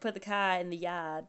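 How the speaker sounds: put-on low-key dropped-R New York accent. Riffing on the co-host's backyard, mock New York. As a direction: softly put on New York vowels in "car" and "yard". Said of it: "from New York".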